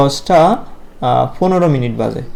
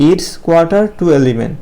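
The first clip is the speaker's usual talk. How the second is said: slow model phrase; much slower than usual. Shown as a demonstration. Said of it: "আমরা কি বলতে পারি?".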